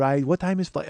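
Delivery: put-on polite Japanese-accented interruption; imitated Japanese businessman; soft Japanese accent. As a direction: beg pardon gently in a Japanese accent. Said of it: "gonna do that Japanese voice".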